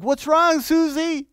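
put-on high, caring voice to a crying child; a worried parent asking a crying daughter, high and caring; concerned parent. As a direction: ask it like a worried parent leaning in. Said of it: "you're like".

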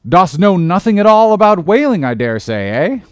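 put-on an old salt sizing up a greenhorn, loud and gruff; gruff old sea captain. Old captain interrogating a would-be sailor, loud and gruff.

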